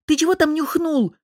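sharp high angry bark; high, loud angry bark; barked line. A narrator's reading. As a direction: snap it at your friend. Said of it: "рявкнул я".

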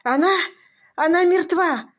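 high, loud grief-stricken wail; anguished moan. A narrator's reading. Husband telling the doctor his wife is dead, anguished wailing. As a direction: cry out the loss as if torn apart. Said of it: "простонал он".

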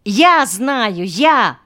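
high, loud eager pupil; excited child calling out; clamouring children. A narrator's reading. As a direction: beg to be picked. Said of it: "ребята загалдели".

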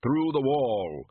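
slow, hollow, lightly voiced Death; deliberate and unhurried, lightly done; Death's voice. A narrator's reading. Death chatting to the shopkeeper, slow and hollow. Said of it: "Death's hollow slow voice".

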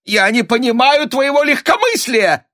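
high, loud shriek of outrage; a mother shrieking at her calm daughter. A narrator's reading. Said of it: "взвизгнула мать".

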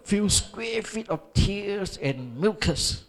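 a touch of slow amused teasing; mock teasing. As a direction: lightly ham up their joke. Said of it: "他们讲". (略带调侃地慢慢说)

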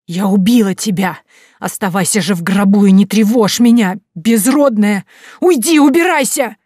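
loud, rising to high shriek; terrified furious yelling. A narrator's reading. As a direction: drive the ghost off screaming. Caroline screams at ghost. (Кэролайн в ужасе кричит на призрака)

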